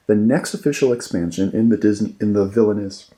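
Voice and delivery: talking through hiccups; hiccuping. Real, not acted. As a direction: catch small hiccups between words. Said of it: "excuse me, I keep hiccuping".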